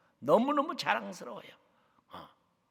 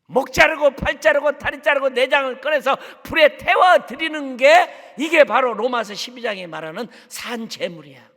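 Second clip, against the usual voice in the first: high, loud preaching cry; impassioned shouted preaching; fiery shout; 5 semitones higher, 12 dB louder than usual. Real, not acted. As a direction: thunder it at the congregation. Climax of sermon, shouting.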